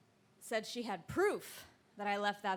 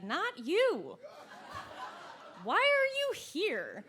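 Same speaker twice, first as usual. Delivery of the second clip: high, loud and slow, aghast; loud stunned why-are-you-here; shocked outburst; 9 semitones higher, 4 dB louder, much slower than usual. Retold or imitated. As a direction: blurt it out in disbelief. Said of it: "And I looked at her and said".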